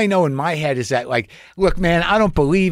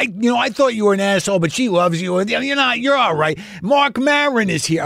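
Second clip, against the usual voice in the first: excited fan; 7 semitones higher than usual. Retold or imitated. Guy calls his wife excitedly.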